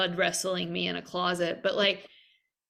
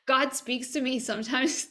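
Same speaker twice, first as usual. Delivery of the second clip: excited, laughing; 5 semitones higher than usual. Real, not acted. Laughing excited aside to guest.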